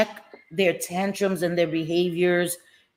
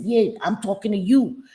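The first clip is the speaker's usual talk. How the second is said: retold angry man; 5 semitones higher than usual. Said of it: "He said".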